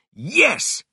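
high, loud cry of joy; Mister Fox bursts out in triumph; excited shout. A narrator's reading. Fox shouts to his children in excitement. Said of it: "he shouted".

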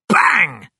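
loud, high shouted bang; sudden explosive shout; gunshot bang. A narrator's reading. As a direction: fire the word out like a shot. Narrator voices a gunshot.

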